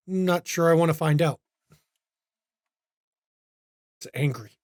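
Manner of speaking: put-on lightly accented, low, brooding stranger; a mysterious German man, mildly ominous. GM voices Liebner.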